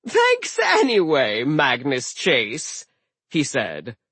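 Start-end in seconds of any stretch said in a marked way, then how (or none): 0.1-2.9 sly drawn-out trickster; slow mocking villain; Loki voice.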